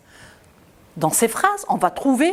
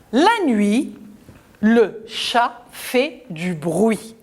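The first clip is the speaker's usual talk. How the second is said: slow model reading; slower than usual. Shown as a demonstration. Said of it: "Et nous allons la lire".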